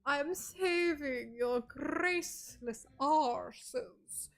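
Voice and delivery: haughty, slow, drawn-out know-it-all voice; uppity know-it-all. Pretend. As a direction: play a smug know-it-all, looking down on them. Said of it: "so much of an uppity know-it-all".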